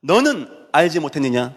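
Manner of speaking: God rebuking His people, voice climbing high; reproachful. Acted. Preacher voices God answering the doubting people, reproachful. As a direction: scold with ringing authority. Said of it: "하나님이 책망하듯이".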